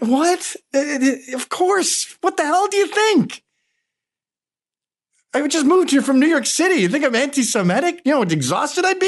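imitating his wife. Husband voicing his wife answering the neighbor, high exasperated mock voice. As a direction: play the flustered New Yorker wife, high and incredulous. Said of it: "She went".

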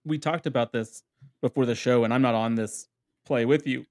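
talking through hiccups; hiccuping between words. Real, not acted. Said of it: "Sorry, I have the hiccups".

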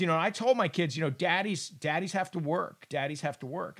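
low, soft fatherly explaining; imitating a gentle dad, low and hushed; Brady. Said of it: "Brady says".

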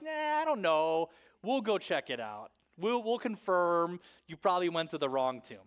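mock skeptical reluctance; dismissive doubt. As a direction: brush them off as unbelieving disciples. Voices doubting disciples brushing off women.

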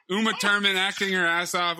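lightly imitating an Austrian accent; a hint of Arnold's Austrian accent on Uma Thurman. Shown as a demonstration. Host slips into Arnold's Austrian accent by accident. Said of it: "He turned into Arnold for a second there".

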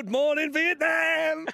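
high, drawn-out radio-style wake-up holler; soaring, stretched-out mock wake-up cry; Good Morning, Vietnam catchphrase. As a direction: belt it out like a morning wake-up call. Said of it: "sit up in your bed and go".

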